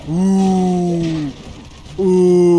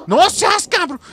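sharp high yell of protest; shout; 10 semitones higher, slower than usual. Real, not acted. Gamer shouting at an enemy who hit him. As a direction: shout at the game in disbelief.

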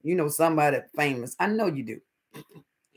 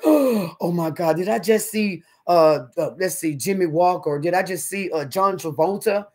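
starstruck. Retold or imitated.

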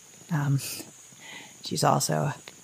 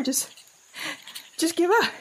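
whispered; 11 semitones higher than usual. Acted. Whispered despair.

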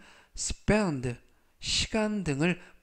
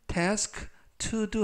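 slow and clear; 4 semitones higher, much slower than usual. Shown as a demonstration. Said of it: "to do는 투부정사로서 앞에 있는 명사 task를 꾸며주고".

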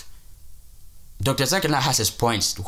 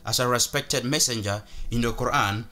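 mock Christian Prince voice; 4 dB quieter than usual. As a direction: drag it out like a sneering debater. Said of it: "they don't talk like this guy talks".

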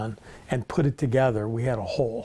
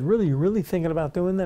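quick, higher-pitched surprised question; retold surprise; 6 semitones higher, faster than usual. Founder retelling how he checked his friend's cookie plan, surprised.

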